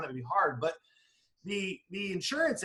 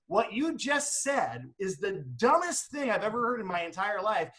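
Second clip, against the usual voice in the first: mock blunt retort; 4 semitones higher, slower than usual. Shown as a demonstration. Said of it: "hold a mirror up in a very nice way".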